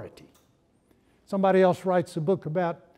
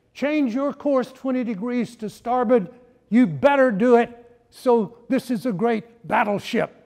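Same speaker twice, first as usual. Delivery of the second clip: higher, louder angry order; furious admiral; 4 semitones higher, 3 dB louder than usual. Acted. Admiral signals the other ship, furious and loud. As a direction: demand it like an outraged admiral. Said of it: "Now the admiral was furious".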